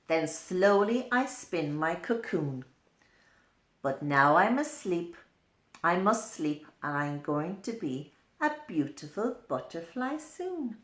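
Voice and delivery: a hint of a greedy caterpillar, sleepy at the end; munching happily, then drowsy; lightly voiced caterpillar. Reading to a child, a mildly voiced hungry caterpillar.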